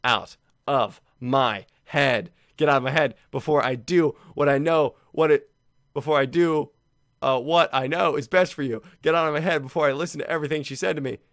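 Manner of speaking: eerie poem reading. Acted. Reading creepy poem aloud, eerie.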